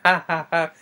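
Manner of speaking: a hammed-up "ha, ha, ha" laugh; mock villain laugh. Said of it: "he's just going laughing".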